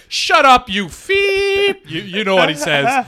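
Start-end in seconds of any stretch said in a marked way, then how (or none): 0.1-1.8 high, loud bleeped snap; mock shout. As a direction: yell it like an angry moviegoer. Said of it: "And the guy's like".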